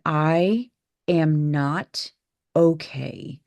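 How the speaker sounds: slow, drawn-out desperate plea. Retold or imitated. Daughter pleading with the doctor, slow and desperate.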